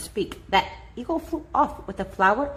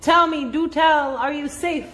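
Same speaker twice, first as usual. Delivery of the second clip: worried pleading; 4 semitones higher, 3 dB louder than usual. A narrator's reading. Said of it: "cried the elephant".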